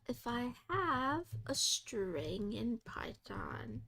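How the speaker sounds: slow whisper, reading off the screen; slow hushed readout. Real, not acted. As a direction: read the query under your breath. Reading a query aloud.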